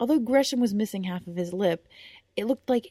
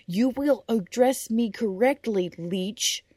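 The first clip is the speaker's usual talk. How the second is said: slow, louder, each word weighed; slower stern repeat; 4 semitones higher, 5 dB louder, slower than usual. Acted. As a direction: repeat it slowly as a warning. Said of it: "repeated the knight".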